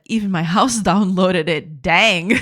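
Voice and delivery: Southern drawl, stretched out slowly; Southern woman accent. Retold or imitated. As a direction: quote her in a slow Southern US accent. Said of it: "southern woman sing".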